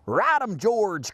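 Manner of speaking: mild high cheer; cried out. Acted. Girl cheering George on the skeleton, mildly cried out. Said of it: "cried a girl".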